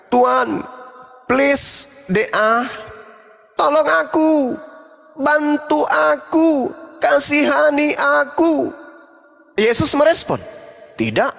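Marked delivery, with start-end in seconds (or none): 0.1-8.7 pleading woman. Retold or imitated. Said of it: "Sambil wanita tersebut berkata". 11.0-11.3 dropped low and cold; a curt, deep no; curt refusal; flat low refusal. Retold or imitated. Jesus refuses the woman.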